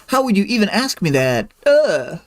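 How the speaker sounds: scowling indignation. Retold or imitated. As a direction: act out an offended, scowling retort. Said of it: "She's all scowling and like".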